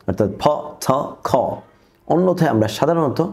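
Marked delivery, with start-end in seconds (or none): 0.4-1.3 ফ, থ, খ with a puff of h on each; heavily aspirated ফ, থ, খ; aspiration. Shown as a demonstration. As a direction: release air after each of ফ, থ, খ. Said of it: "অ্যাসপাইরেশন করব".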